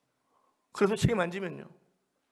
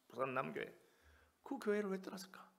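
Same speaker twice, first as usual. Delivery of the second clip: ordinary delivery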